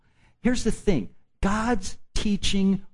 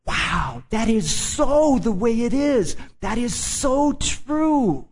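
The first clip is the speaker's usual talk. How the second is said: wowed listener; 6 semitones higher, slower than usual. Retold or imitated. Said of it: "it's like".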